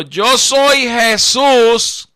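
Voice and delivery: very slow, solemn voice from heaven; voice of Jesus. Acted. Jesus answers the fallen Saulo, very slow and solemn. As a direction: draw out each word like a voice from the sky.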